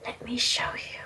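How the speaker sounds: breathy, voiceless threat close to the ear; creepy whisper. A narrator's reading. Villain whispering to the captive heroine. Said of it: "he whispered".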